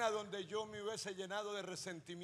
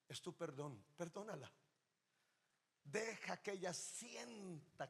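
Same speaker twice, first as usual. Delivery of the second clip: gentle divine voice; 4 dB quieter than usual. Retold or imitated. God's quoted gentle instruction.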